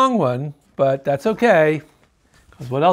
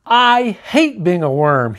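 screeched. Acted. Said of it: "he screeched".

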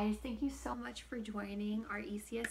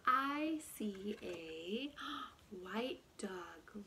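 gasping surprise; much slower than usual. Acted. Gasped surprise in story.

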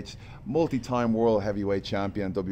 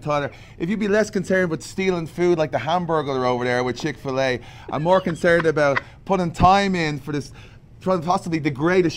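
loud, higher-pitched event plug; show promo; 5 semitones higher, 3 dB louder than usual. Pretend. Wrestler plugging tonight's SmackDown show, promo delivery. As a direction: sell tonight's show with big, raised energy.

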